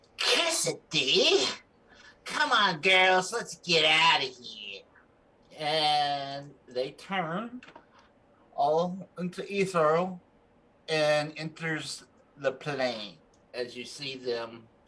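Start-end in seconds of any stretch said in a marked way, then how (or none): 0.2-4.8 screeching hag voice, swinging up and down. Game master voicing Auntie Pillage as the hags flee, screeching out to the others. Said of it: "She screeches out".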